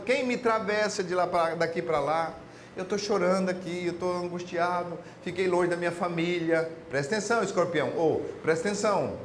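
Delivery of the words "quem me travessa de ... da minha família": mild mock crying. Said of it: "chorando, desesperado".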